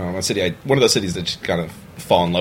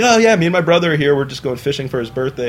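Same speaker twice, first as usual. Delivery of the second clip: laughing; 6 semitones higher, 6 dB louder than usual. Retold or imitated. Friend casually explaining, laughing.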